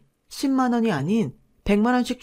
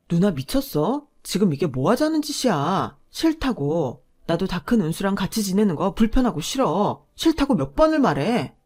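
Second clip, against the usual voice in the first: finally snapping at his sister; fed-up husband. Acted. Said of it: "자기도 도저히 참을 수 없었던 거죠".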